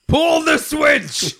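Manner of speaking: high, slow, loud shout; shouted command. Acted. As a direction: yell the order across the room. Shouted game call.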